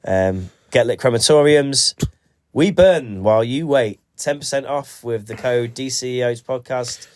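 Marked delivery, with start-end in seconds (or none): 0.7-6.2 ad read. Pretend. Mock advert read.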